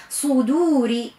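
صدوري slowly with a thick emphatic sad; full-mouthed sad; heavy sad. Shown as a demonstration. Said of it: "أعطيه حقه في التسمين".

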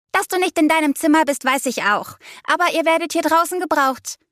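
put-on high, urgent girl's call; exasperated friend through door. A narrator's reading. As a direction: argue back through a closed door. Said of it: "drang Leas Stimme durch die Tür".

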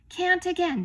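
high, loud, outraged challenge; indignant retort. A narrator's reading. King hears another refusal, loud and indignant.

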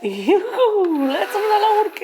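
high, laughing whoop; excited. Real, not acted. Mother cheers as bubbles fly at the baby, high and laughing. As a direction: squeal it with delight.

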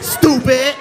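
angry rant at heckler. Real, not acted. Comic yells at heckler.

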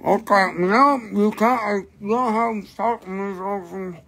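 talking around a mouthful; words muffled by food; mouth full. Real, not acted. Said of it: "because my mouth is full".

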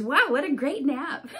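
delighted to wake up; happy Piggy laughing. Acted. Piggy waking from the nap, laughing. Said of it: "Piggy wakes up and says".

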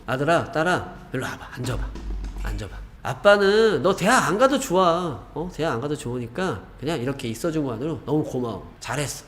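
put-on a gentle, comforting father to his child; a father who soothes his child after the exam; reassuring parent. Shown as a demonstration. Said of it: "제가 하는 대로 한번 따라해 보십시오".

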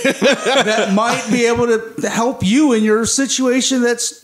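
lightly voiced Howard Stark, laughing through; father's message.

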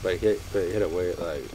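talking through a mouthful of food; chewing while speaking, words muffled by food; mouth full. Real, not acted. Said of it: "Don't talk with your mouth full".

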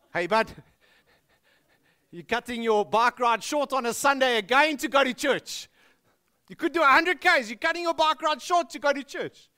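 loud, high incredulous East Rand guy; mock Benoni bro; Benoni cyclist. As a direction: scoff like a Benoni cycling buddy. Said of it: "in Benoni, it goes something like this".

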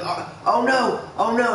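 high, mock-panicked oh no; hammed-up panicked buddy; alarmed coworker.

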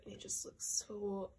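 unvoiced adoring whisper; hushed gushing whisper. Real, not acted. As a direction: whisper it like a swooning fan. Gushing over the photo.

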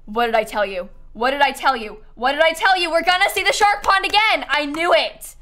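real "I told you so" excitement, building; excited triumph. Real, not acted. Predicted shark pond turns up, crowing.

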